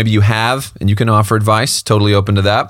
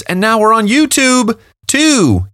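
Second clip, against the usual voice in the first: hype announcement; 10 semitones higher, slower than usual. Acted.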